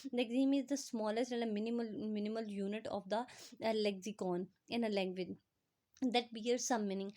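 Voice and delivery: reads the English definition word by word, very slowly; slow dictation reading. Acted. Teacher reading the textbook definition to students, slow dictation. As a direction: spell it out slowly for students to copy.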